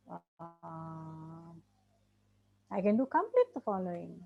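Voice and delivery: imagined inner voice. Retold or imitated. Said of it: "you have to say".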